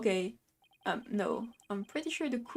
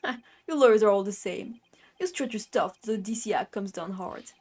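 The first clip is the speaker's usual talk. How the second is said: lightly voiced Brooklyn tough guy; Brooklyn accent. Justice minister to a nosy lawyer, light Brooklyn accent. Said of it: "a Brooklyn accent".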